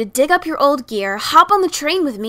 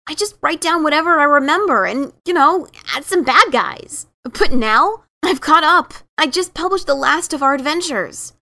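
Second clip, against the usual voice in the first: rising agitation; 3 semitones higher, 5 dB louder than usual. Acted. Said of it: "She ended abruptly".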